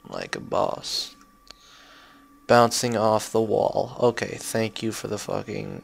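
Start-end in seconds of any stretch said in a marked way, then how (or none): 0.1-1.2 much lower, slow rapper boast; slow bass-voiced "like a boss" as a rapper. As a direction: drop deep and slow like a rapper's brag. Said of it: "a rapper".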